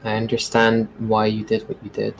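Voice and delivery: soft, gentle comfort; calm her down quietly; reassuring softly. Acted. Reassuring a frightened girl.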